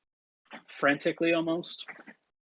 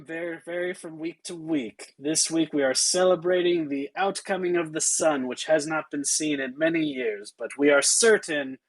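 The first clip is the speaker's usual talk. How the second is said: guard's rote official spiel; mildly deadpan city-gate speech. Acted. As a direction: recite the rules with little excitement. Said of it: "she is totally deadpan".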